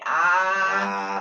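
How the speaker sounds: a clear doctor's-office aah; demo aah. Shown as a demonstration. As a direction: open wide and sing out aah. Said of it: "stick out your tongue, say".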